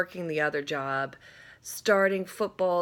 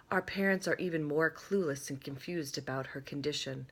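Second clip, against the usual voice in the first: soft, even read-aloud voice; 4 dB quieter than usual. Acted. Vlogger reading a book excerpt, soft read-aloud voice. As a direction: read the passage gently to the viewers.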